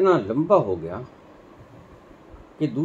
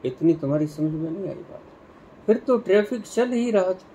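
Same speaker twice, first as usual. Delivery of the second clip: raised, emphatic telling-off, acted; boss scolding; 5 semitones higher than usual. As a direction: berate a dim subordinate in a storyteller's mock rebuke. Boss scolds the dim commanders. (मूर्ख मातहत को अभिनय में ऊँची आवाज़ में डाँटते साहब)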